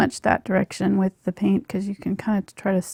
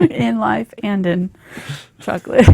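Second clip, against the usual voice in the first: laughing; 2 semitones higher, 11 dB louder than usual. Real, not acted. Joking life lesson, laughing.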